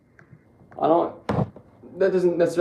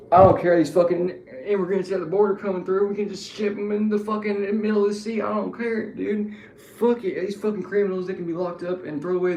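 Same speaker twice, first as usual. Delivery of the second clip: Southern redneck voicing a fascist view, higher pitch; Southern accent mocking fascists, pitched up; 6 semitones higher, 3 dB louder than usual. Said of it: "See, when I use the Southern accent".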